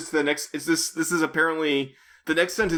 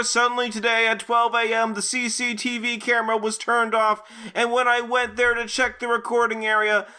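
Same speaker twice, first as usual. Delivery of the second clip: higher-pitched reading of a story; story narration; 5 semitones higher than usual. Acted. Reader telling friends about the camera found switched off, higher narration. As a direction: read aloud, higher and even.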